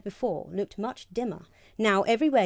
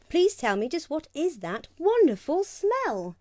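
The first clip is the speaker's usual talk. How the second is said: princess yelling; 7 semitones higher, 3 dB louder than usual. Acted. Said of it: "She needed to yell".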